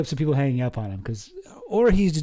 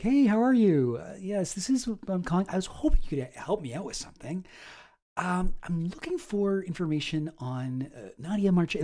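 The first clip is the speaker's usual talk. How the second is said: softer, friendly telemarketer voice easing into the ask; smooth friendly caller; 4 semitones higher, 5 dB quieter than usual. Shown as a demonstration. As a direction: warm the caller up before asking. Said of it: "build some rapport a little bit".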